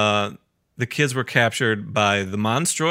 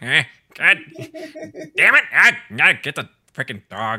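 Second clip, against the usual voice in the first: Skeletor; 2 semitones higher, 4 dB louder than usual. Retold or imitated. Villain looking back at the dog, exasperated squawk. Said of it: "He keeps looking back like".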